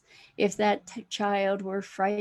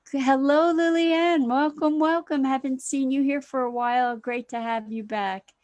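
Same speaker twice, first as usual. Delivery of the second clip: much higher and louder, delighted welcome; bright greeting; 4 semitones higher, 4 dB louder than usual. Real, not acted. Host greets Lillian returning to the stream, excited welcome.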